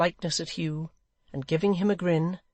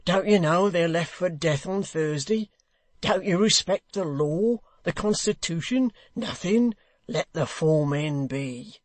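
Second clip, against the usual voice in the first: indignant hangman; 2 semitones higher, 3 dB louder than usual. Acted. The hangman scolding Hugh about the law, indignant. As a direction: appeal to the law.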